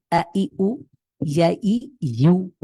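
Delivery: slow, drawn-out Arabic vowel sounds; teacher modelling a, i, u; vowel drill. Shown as a demonstration. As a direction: sound each vowel out for students to copy. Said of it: "এভাবে এক নিঃশ্বাসে যদি পড়তে পারি".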